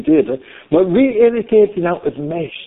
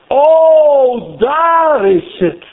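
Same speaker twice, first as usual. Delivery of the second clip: high, slow, drawn-out wonder; rapturous exclamation; 6 semitones higher, much slower than usual. Acted. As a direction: let each phrase soar, stretched out. Exclaims hymn words on seeing it.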